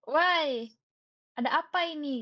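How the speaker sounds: loud mock-baffled why; retold shock. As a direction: act out bewilderment out loud. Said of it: "aku, aku terkejut".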